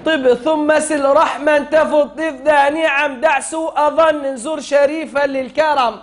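chanted teaching recital of a poem line; measured chant for a class to echo; verse recitation. Shown as a demonstration. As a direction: recite it as a model for pupils.

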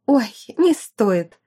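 slow drawn-out brush-off; dismissive. Acted. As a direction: wave her off lazily. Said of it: "отмахнулась от неё Эрика".

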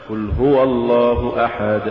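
قل هو الله أحد with a vowel stretched into an extra letter; faulty recitation. Shown as a demonstration. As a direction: overdo the vowel after هو, the wrong way. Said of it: "ولا تقل".

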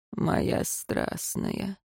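very slow, whispered tenderness; smiling whisper. A narrator's reading. Rior whispering to his lover, slow smiling whisper. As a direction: smile and whisper it. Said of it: "улыбнулся Риор".

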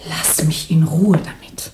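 weary whisper. Acted. Patricia brushing Jan off.

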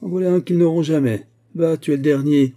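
loud, high-pitched crowing praise; delighted cry. A narrator's reading. Uncle hailing his loyal clerk, delighted loud cry. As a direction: proudly proclaim it, high and strong. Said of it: "criait Baudu ravi".

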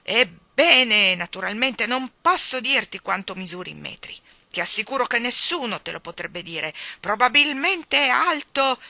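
loud, high royal bluster; king thundering an empty answer. Acted. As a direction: roar it to cover his ignorance. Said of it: "tuonò la sua voce".

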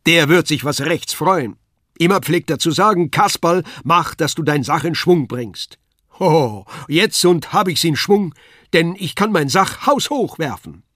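high, loud puppet-clown boasting; Kasperl calling out. A narrator's reading. Kasperl boasting that he can throw his pack, high and loud. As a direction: swagger loudly in a high puppet voice. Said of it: "rief er".

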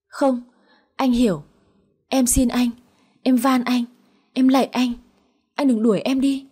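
mildly acted desperate entreaty; desperate pleading. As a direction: beg him urgently in short phrases. Wife begs husband not to leave her.

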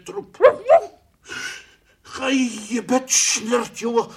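loud, high scolding yell; angry shooing. Acted. A bird yelling at the cat to go away, loud and high. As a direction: chase the cat off.

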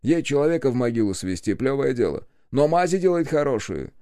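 ordinary delivery

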